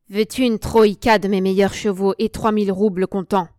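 loud, insistent, agitated offer; nervously agitated. A narrator's reading. Marcine offering horses and roubles, nervously agitated. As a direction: press the bid hard and loud. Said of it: "Il tremblait d'agitation nerveuse".

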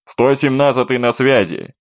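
pilot's voice over crackly radio; crackly military radio. Acted. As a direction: answer through radio static. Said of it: "раздался голос пилота". (треск военной рации)

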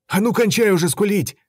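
angry rebuke. A narrator's reading. Bart snapping at coward.

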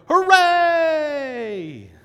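high, loud whoop of joy; mock cheer. Disciples should have cheered at Jesus, high joyful shout. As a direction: cheer like you've just seen your saviour.

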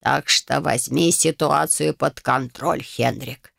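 put-on low, slow creaking old voice; creaky old man. A narrator's reading. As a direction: grate it like rusty door hinges. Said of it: "Конрад". (скрипучий голос старика, медленно и низко)

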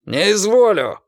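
a curt angry bark; snapped refusal. A narrator's reading. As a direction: bark it back in scorn. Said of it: "рявкнул Костя".

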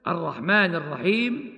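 الرحيم ending on a plain silent م with a short two-beat ي; short madd before the stop; two-count stop. Shown as a demonstration. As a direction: recite الرحمن الرحيم and stop on الرحيم with bare sukun. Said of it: "كما ننطق بالسكون المجرد هكذا".

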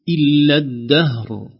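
إلا الدهر with the ha and ra both held still; slow, deliberate الدهر with both final consonants clear; careful two sukuns. Shown as a demonstration. Teacher showing the stop on الدهر. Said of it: "نلاحظ أن كلمة".

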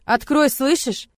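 loud, slow, insistent demand. Acted. Man demanding Lora open the door, loud and slow. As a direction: pound out the order to open.

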